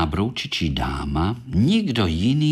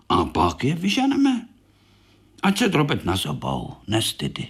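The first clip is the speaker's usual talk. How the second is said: higher, kindly small-beetle voice; gentle little beetle; 5 semitones higher than usual. Acted. Korálek soothing injured Baňka, kindly and higher. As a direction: coax your hurt brother to sit down.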